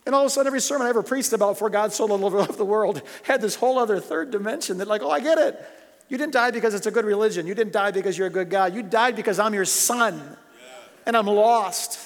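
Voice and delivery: heartfelt outpouring, pushed high and strong; real, getting emotional. Real, not acted. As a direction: preach it loud and high, close to tears. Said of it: "I'm sorry, I'm getting emotional".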